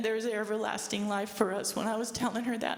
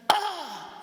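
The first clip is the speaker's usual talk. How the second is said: high, louder exasperated cry; angry yell; 8 semitones higher, 5 dB louder than usual. Retold or imitated. Mother fed up with her daughter, angry yell. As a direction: cry out in frustration. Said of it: "she just went".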